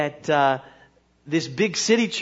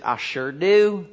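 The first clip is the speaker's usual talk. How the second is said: slow, lightly voiced country preacher; backwoods preacher; slower than usual. Country preacher answering the committee, slow backwoods voice. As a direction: stretch it out like a backwoods guy. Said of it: "kind of a backwoods kinda guy".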